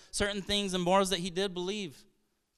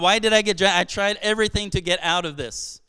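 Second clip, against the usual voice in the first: frustrated complaint; 7 dB louder than usual. Retold or imitated.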